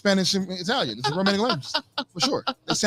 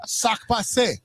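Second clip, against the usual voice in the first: Haitian Creole. Shown as a demonstration. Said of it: "I even speak a little Haitian Creole".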